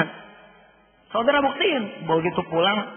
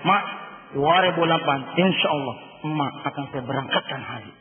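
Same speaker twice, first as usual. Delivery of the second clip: "Mak", "dua ribu delapan", "insya Allah", each set apart by a pause; measured promise, softening on "berangkatkan haji"; full stops, no commas; 4 semitones lower, 4 dB quieter than usual. Acted. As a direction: say "Mak akan saya berangkatkan haji" as a final, falling statement. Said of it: "Tanpa koma kita bilang pakai titik".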